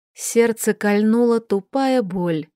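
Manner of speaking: plain reading voice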